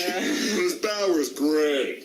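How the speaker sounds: slow, dry sarcastic read. Acted. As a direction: drag it out sarcastically. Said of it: "It's not really sarcastic".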